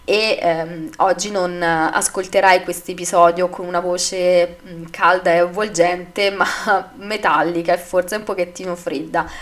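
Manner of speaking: raspy from laryngitis; hoarse voice. Real, not acted. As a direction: speak through a sore, hoarse throat. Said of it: "ho una forte laringite".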